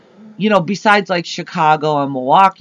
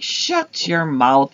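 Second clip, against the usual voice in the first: drawn-out disbelief; much slower than usual. Retold or imitated. Retold disbelieving reply to boyfriend.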